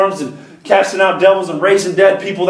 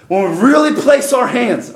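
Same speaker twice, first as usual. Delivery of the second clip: "really" leaned on and raised; stress on "really"; 4 semitones higher than usual. Real, not acted. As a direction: hit the word "really" hard. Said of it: "I want to emphasize that word".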